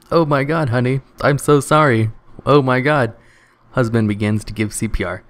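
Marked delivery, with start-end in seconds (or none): 0.1-3.1 hammed-up sitcom horror, louder; a mild mock panic over her body. Husband finds his wife on the bathroom floor, mock panic.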